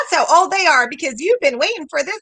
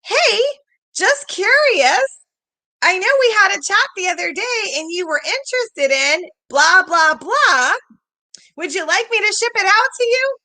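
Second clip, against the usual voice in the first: friendly follow-up text; 4 semitones higher than usual. Pretend. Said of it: "What if we just simply asked".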